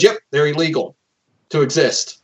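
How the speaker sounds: breezy, lightly voiced Emperor; Emperor impression. Emperor casually answers his officer, lightly voiced and breezy. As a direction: toss off the cruelty like small talk. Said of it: "my Emperor impression".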